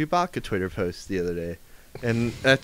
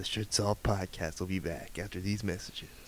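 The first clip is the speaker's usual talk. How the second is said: cool cartoon-announcer voice, much quieter; 3 semitones lower, 11 dB quieter than usual. Pitching a commercial-break line for the podcast, in a Transformers announcer voice. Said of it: "a cool ass voice going like".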